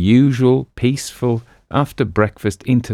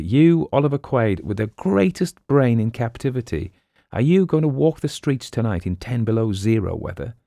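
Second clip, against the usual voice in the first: worried sidekick; 5 semitones higher than usual. Acted. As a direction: fret to your friend. Boston pleads with Quaid.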